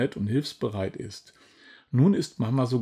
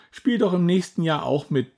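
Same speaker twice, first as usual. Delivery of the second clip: pleading mother; 6 semitones higher than usual. A narrator's reading. Mama asks Julia to join next year, higher pleading voice. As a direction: ask nicely, lightly voiced mum. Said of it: "bittet Mama".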